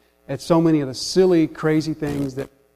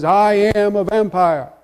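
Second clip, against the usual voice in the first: lightly voiced vampire, raised in pitch; a touch of grand vampire proclamation, higher; Count Blood Count; 4 semitones higher, 4 dB louder than usual. Vampire towering over Bugs, lightly mock-imposing. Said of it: "the vampire, Count Blood Count".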